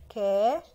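long held كا; fatha sound. Shown as a demonstration. Teacher giving the first sound of dog, drawn-out كا. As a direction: stretch كا out, then pause. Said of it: "حرف الكاف وعليه فتحة".

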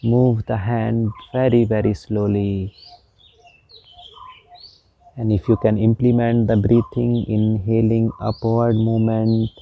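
slow, measured meditation guide with long pauses; guided meditation. Real, not acted. Meditation teacher guiding listeners through palm movements, slow guided meditation. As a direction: draw out the instructions, unhurried and even.

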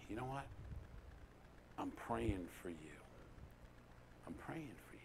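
very soft, unhurried reassurance, fading almost to a whisper; humble, contrite. Retold or imitated. Retelling words to a lost child of God, humble and contrite. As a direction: say it gently, without raising your voice. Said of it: "Very humbly, very contrite, not raising my voice".

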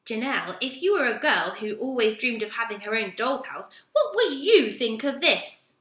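a stern boss, slowing on the question; stern store manager questioning a worker. Acted. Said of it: "his voice stern".

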